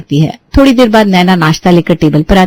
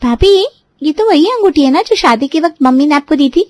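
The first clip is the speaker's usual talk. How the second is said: higher, probing and curious; mildly wondering aloud; thoughtful question; 8 semitones higher than usual. A narrator's reading. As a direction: ask it while still thinking. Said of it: "कुछ सोचते हुए कहती है".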